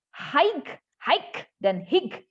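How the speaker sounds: slow, separated "hike" and "hick", hard k; wrong pronunciations. Shown as a demonstration. Teacher listing the wrong versions, slow wrong pronunciations. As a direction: list "hike" and "hick" one by one.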